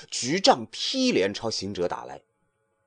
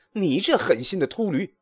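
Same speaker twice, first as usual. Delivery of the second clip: angry curse; 7 semitones higher than usual. A narrator's reading. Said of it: "骂道".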